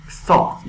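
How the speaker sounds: "استارت" opening straight on a hissed s; "استارت" as English "start"; drawn-out S. Shown as a demonstration. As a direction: start "استارت" with s, no vowel before it.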